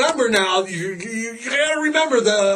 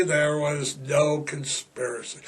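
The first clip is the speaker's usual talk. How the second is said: mock sincerity; 5 semitones lower, 6 dB quieter than usual. Real, not acted. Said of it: "can you hear the sarcasm".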